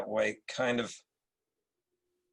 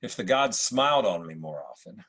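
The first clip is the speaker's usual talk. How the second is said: supercilious Marcus Aurelius. Acted. Emperor greets Septimius at court, lightly supercilious. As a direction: play it like a British actor's Roman emperor. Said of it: "a slightly supercilious Marcus Aurelius".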